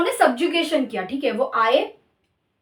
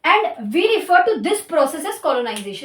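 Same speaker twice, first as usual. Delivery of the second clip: slow definition dictation; much slower than usual. Shown as a demonstration. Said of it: "ठीक है".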